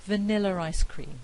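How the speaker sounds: "Vanilla ice cream" said as vaniller-ice cream; intrusive R. Shown as a demonstration. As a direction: slip an R between "Vanilla" and "ice". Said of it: "is another example".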